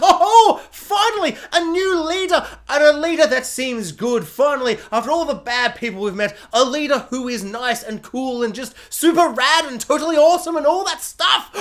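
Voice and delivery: high, gushing fake excitement; mock delight. Mocking the show's new leader with hammed-up gushing delight.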